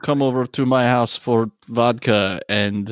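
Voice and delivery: hammy bad Russian pick-up line; terrible Russian accent. Russian inviting someone over for vodka, terrible accent. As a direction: flirt in a badly faked Russian accent. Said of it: "That is a terrible Russian accent".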